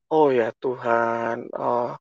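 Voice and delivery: soft, slow, close to tears; real tears rising as it sinks in; choked-up realization. Real, not acted. Recalling the church sign to listeners, voice softly breaking.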